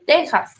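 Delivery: Texas said with a J, like Tejas. Shown as a demonstration. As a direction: sound the X in Texas as J. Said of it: "las X se suena como J".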